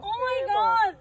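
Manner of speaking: drawn-out delighted shriek; excited shriek. Real, not acted. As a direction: squeal it slowly with joy. Draws own card, shrieks.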